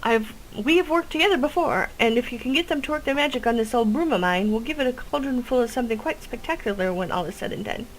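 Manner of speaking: eager witch; chirpy witch voice. Acted. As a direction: sell the plan like an eager witch. Witch NPC continues.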